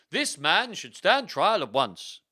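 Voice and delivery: high, loud, slow proclamation; pompous demand for justice; demanding bishop. Acted. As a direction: declaim it like an outraged bishop. Bishop demands trial, acted.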